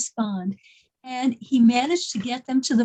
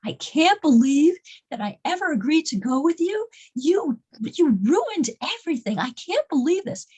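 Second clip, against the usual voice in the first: higher-pitched imitation of outrage; acted-out indignant complaint; upset, retold; 4 semitones higher than usual. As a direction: lay into him as the upset passenger. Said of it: "She was so upset".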